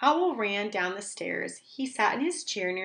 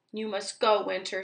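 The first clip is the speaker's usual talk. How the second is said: mild shout. Acted. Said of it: "shouted Owl".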